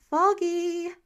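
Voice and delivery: high, loud retort of his name; shot back. Acted. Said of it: "she shot back".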